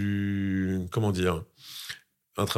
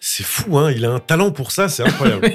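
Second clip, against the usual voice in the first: high, loud, laughing disbelief; helpless laughter running through the words; 7 semitones higher, 6 dB louder than usual. Real, not acted. Actor marvels at the interviewer's talent for teasing, laughing.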